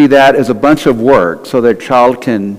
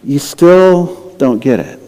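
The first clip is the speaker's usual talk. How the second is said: exasperated Jesus; slower than usual. Retold or imitated. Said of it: "kinda grasping his head going".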